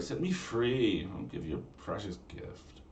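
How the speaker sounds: slow, fading bargaining plea; Valley Girl mermaid. Acted. Mermaid offering a gift, slow Valley Girl drawl. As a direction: drag it out, then drop off.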